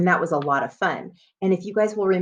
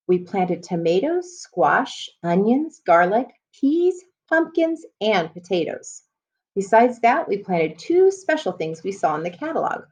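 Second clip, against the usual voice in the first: put-on reading to children. Teacher reading a chapter book to students, storybook voice. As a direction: clear storybook read-aloud.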